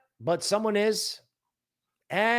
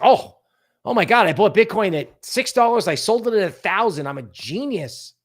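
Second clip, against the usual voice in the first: hammed-up excited brag, louder and higher; mock gloating; 3 semitones higher, 5 dB louder than usual. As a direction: play a smug early buyer bragging. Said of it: "It's like".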